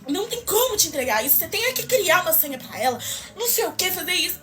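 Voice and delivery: milder replay of a clerk's yelling; retold yelling. Clerk demanding a password for the mother, mild mock yelling. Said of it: "ela já me atendeu gritando".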